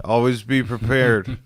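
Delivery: slow, lightly put-on drunken voice; mock drunk advice. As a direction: imitate a drunk solemnly advising Boy Scouts. Drunk friend advising Boy Scouts.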